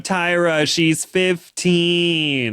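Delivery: mock-scolding, stretching out the age very slowly; exasperated protest. Viewer protesting to Tyra about a minor, exasperated. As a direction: drag out the last word in dismay.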